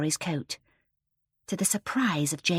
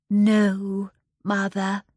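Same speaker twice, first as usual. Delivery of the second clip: meek; 2 semitones higher, 6 dB louder, much slower than usual. A narrator's reading. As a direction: answer meekly, as if afraid of mother. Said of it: "said Miss Fanny meekly".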